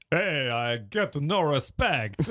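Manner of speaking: slow, hammed-up comedian catchphrase; Rodney Dangerfield. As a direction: drag out the complaint as a celebrity impression. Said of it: "I do a great impression of Rodney".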